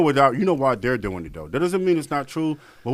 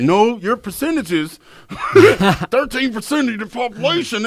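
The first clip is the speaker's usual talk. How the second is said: mocking racist; 8 semitones higher, 5 dB louder than usual. Mocking racists who quote percentages, laughing. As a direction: ham up the smug statistic guy. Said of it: "And they're like".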